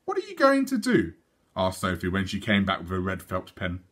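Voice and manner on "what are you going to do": put-on high little girl. Little Sophie asking.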